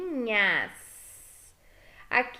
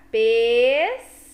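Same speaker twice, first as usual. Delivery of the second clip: "pescador" said slowly and louder, parted into syllables; 8 dB louder, slower than usual. Shown as a demonstration. Teacher shows kids how to split "pescador", slowly. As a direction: sound out "pescador" slowly for the class. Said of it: "você fala devagar".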